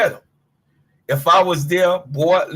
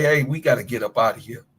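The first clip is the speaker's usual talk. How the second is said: coach's warning; 6 semitones lower, faster than usual. Retold or imitated. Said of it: "shoulda gave you some advice and say".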